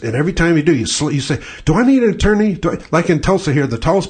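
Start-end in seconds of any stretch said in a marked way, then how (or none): 1.7-2.5 sharp, loud pointed question; pointed threat. Pretend. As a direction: put them on notice.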